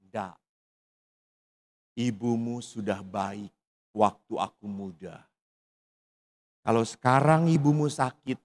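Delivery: a hint of an old father speaking lovingly of his sick wife; quiet tender father. Ayah menolak, bicara tentang istri. (suara ayah yang lembut dan pelan)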